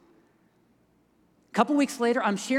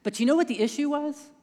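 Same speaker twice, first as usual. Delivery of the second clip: rising, urgent confession; 6 semitones higher, 5 dB louder than usual. Real, not acted. Preacher builds to confession.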